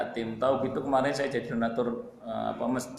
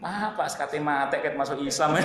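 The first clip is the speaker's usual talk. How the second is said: laughing inner joke. Pretend. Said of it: "saya batin gini".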